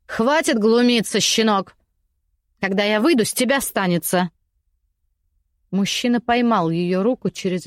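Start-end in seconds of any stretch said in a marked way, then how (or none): 0.1-4.3 angry. Acted. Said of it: "начала злиться женщина".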